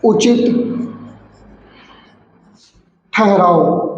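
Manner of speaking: word by word with long silences; slow dictation. Shown as a demonstration. Teacher dictating a definition to students, slow dictation. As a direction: dictate slowly, leaving time to write. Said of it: "लिख लेते हैं".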